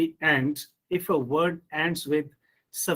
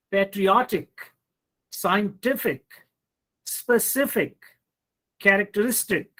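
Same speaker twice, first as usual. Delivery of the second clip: patriOTic, scienTIFic, speCIFic, characterISTic; stress before the suffix; 2 semitones higher than usual. Shown as a demonstration. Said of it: "the syllable that comes immediately before these suffixes".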